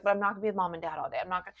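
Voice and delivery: rushed imitation of an upset kid; retold child's protest. Mom quoting her shut-down son, rushed protest. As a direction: rattle off the child's objection very fast.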